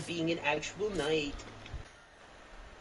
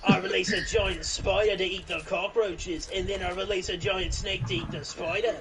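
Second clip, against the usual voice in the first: mock Australian accent. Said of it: "That's just Australian way".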